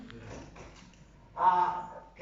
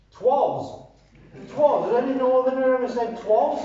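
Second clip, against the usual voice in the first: higher, louder, mock-outraged questioning; incredulous scoffing; 6 semitones higher, 5 dB louder than usual. Shown as a demonstration. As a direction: pick at the word in loud disbelief. Scoffing at the ad's wording.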